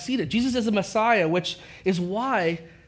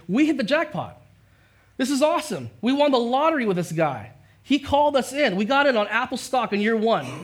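imitating excited disciples; 5 semitones higher than usual. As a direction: play the disciples thinking they hit the jackpot. Disciples imagining their big win.

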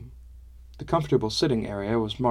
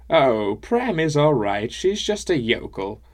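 put-on amused old woman; 4 semitones higher, 5 dB louder, slower than usual. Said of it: "She laughed again and said".

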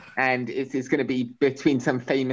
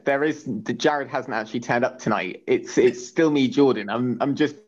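talking into an echo microphone. Real, not acted. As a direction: voice through an echo mic. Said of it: "an Echo microphone in one".

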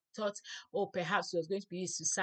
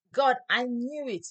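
loud, higher, slow outburst read aloud; yelling at God; 5 semitones higher, 9 dB louder than usual. A narrator's reading. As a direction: read it as Jonah's raised-voice complaint to God. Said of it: "He yelled at God".

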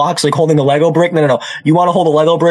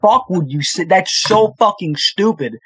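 drawn-out, disbelieving fury; slow exasperated rant; 3 semitones higher, slower than usual. Real, not acted. Friend on podcast rants at dumb gun buyer, slow exasperated disbelief. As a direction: spell out how dumb it was, slowly. Ranting at the customer's stupidity.

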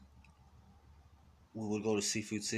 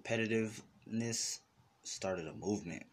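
dramatic narrator voice; 5 semitones lower, 7 dB quieter than usual. Acted. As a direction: announce it like a documentary, low and hushed. Mock dramatic announcement.

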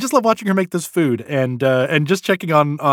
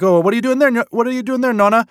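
grandson's voice; 8 semitones higher, much faster than usual. Retold or imitated. Grandson teasing grandma while she cooks, high. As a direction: call out to grandma like a playful grandson. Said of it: "he's just like".

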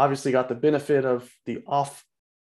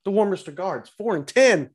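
excited boomer recap; 4 semitones higher than usual. Acted. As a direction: ham up the sportscaster boomer. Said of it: "No, you need to speed it up".

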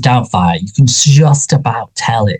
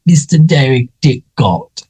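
mock old man; 5 semitones higher, slower than usual. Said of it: "and it's like".

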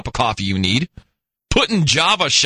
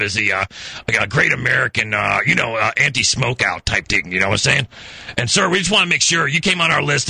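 lightly disguised polite official; a hint of a fake Lung Association rep; prank caller voice. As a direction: play a stiff anti-smoking caller. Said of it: "Let's gotta get a voice".

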